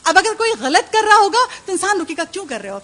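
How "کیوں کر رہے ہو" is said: lovingly. Retold or imitated. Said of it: "پیار سے سمجھائیں گے نا".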